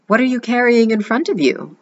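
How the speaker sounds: high sly witch voice. A narrator's reading. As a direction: ask slyly like a witch. Witch asks the princess.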